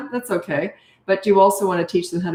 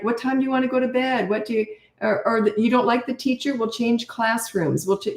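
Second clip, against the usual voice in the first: higher, sweet, coaxing mock parent; eager-to-please parent; 5 semitones higher than usual. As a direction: bend over backwards to keep the kid happy. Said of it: "you're always trying to please them".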